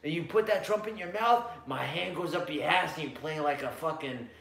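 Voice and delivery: creepy Louisiana guy. Acted. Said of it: "That's creepy Louisiana guy for you guys".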